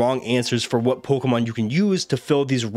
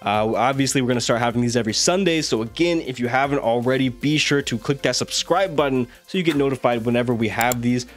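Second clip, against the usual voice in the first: hoarse, strained sick voice; talking through a failing voice; voice giving out. Real, not acted. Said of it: "My voice is giving out".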